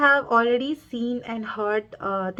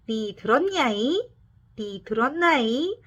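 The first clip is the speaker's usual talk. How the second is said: Cholla ajumma; much faster than usual. Retold or imitated. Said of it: "shouting or asking you".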